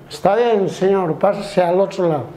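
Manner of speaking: put-on lightly slurred, placating drunk; reply like a tipsy man backing down; drunk passenger. Drunk answers an offended passenger, lightly acted tipsy voice. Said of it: "Oiga, borracho".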